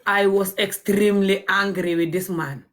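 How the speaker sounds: slow, emphatic indignation; heavy, deliberate retold outrage; angry. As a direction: stretch it out, swearing you were furious. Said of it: "And I was so angry".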